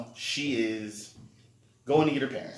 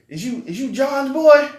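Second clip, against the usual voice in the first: imitating white man; 13 semitones higher, 11 dB louder than usual. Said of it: "he's like".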